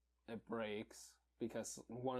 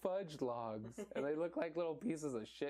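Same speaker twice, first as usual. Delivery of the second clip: mom's voice; 5 semitones higher than usual. Retold or imitated. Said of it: "her mom made".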